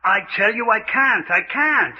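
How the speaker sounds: mild acted hysteria, begging to stop; hysterical panic. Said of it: "with your hysteria".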